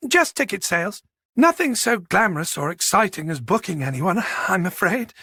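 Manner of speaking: a hint of genteel, old-fashioned politeness; lightly voiced genteel woman. Box office manager playing down her job to Boyd, politely modest.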